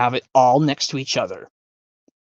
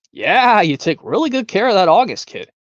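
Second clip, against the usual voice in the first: guest remark; 6 semitones higher, 3 dB louder than usual. Retold or imitated. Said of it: "from Willy Wonka".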